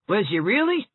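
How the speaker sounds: dry sarcastic jab. A narrator's reading. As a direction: needle her with mock interest. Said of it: "inquired Rebecca Dew sarcastically".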